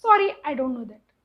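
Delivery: very slow, even machine reply; imitating Alexa. Mother mimics Alexa's reply, slow and mechanical. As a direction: speak like a polite assistant. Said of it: "Alexa कहती".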